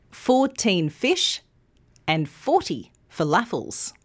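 put-on thirteen with teen long, thirty with thir long; contrast stress. Shown as a demonstration. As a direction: make thirteen and thirty clearly different. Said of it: "say it with me".

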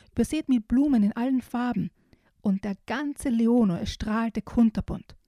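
put-on lively storybook reading for small kids; reading to children. Host reading a children's book excerpt to young listeners, storybook voice. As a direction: read it like a bedtime picture book. Reads picture book aloud.

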